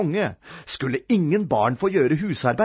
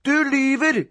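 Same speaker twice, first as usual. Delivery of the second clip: put-on high, indignant child; accusing cry; 11 semitones higher, 3 dB louder than usual. A narrator's reading. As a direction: fire the accusation at your brother. Boy accuses brother in quarrel.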